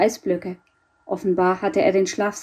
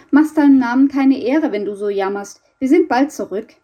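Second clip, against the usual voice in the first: lightly raised, teasing reproach; playful chiding; 4 semitones higher, 5 dB louder than usual. Acted. Boy leaves the wailing garden cat behind, playfully chiding. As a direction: mildly scold a pet before leaving it.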